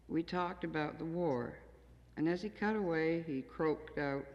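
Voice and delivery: measured, deliberate poem reading; a poet reading her own work to an audience; poetry reading. Acted. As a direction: read each line as verse, letting the images land. Reads her poem aloud.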